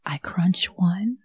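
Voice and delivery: breathy whisper into the mic. Pretend. ASMR eating bit, whispered request.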